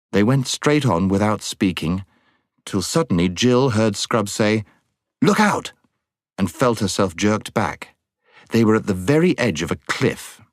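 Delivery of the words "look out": sharp, high-pitched call of alarm; urgent warning cry. A narrator's reading. Scrub warns Jill at the cliff edge, urgent high cry.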